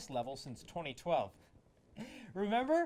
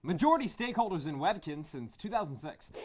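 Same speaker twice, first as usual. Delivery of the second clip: rally speech. Acted. Hosts hyping Micronesia like slogans.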